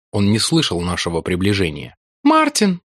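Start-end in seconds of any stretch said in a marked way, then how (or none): 2.2-2.8 put-on high young woman calling quietly; calling softly. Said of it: "негромко позвала Руфь". (негромко позвала)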